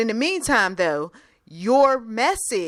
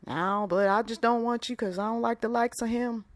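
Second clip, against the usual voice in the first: lightly acted Southern relative objecting; a touch of Southern in the protest; Southern accent; 2 semitones higher than usual. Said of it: "I used a Southern accent".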